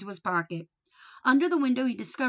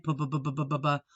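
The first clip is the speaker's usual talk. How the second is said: motorcycle noise; 6 semitones lower, faster than usual. A narrator's reading. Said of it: "making noise with his mouth".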